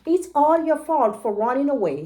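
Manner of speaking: a touch of grumbling lion; mildly grumpy lion voice. Acted. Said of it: "he grumbled".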